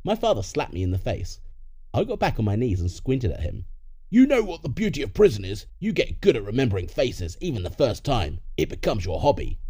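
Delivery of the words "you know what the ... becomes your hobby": taunting parent. Acted. Ex-prisoner parent to the kneeling son, mild taunting. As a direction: open forcefully, then ease into the taunt.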